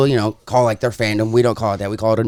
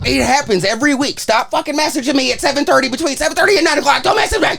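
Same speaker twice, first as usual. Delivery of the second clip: exasperated rant; 8 semitones higher than usual. Real, not acted. Rants about people messaging him.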